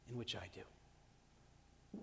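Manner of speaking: very slow, whispered trailing end. Real, not acted. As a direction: breathe the words out slowly. Intimate confession trailing off.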